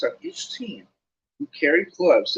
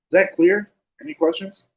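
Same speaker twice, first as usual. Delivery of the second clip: loud, higher demanding check; brisk captain; 7 semitones higher, 6 dB louder than usual. A narrator's reading. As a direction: snap it at the tired team. Wood ending long talk.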